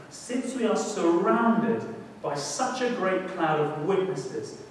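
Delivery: slow, deliberate reading of the verse; slow scripture reading. Shown as a demonstration. The preacher reads the Hebrews verse slowly to the congregation. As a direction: lay each word down with weight. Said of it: "reads verse slowly, then repeats".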